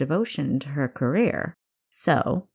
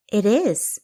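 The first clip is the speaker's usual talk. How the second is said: exclaiming; 4 semitones higher, 4 dB louder than usual. A narrator's reading. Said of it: "Kessa exclaimed".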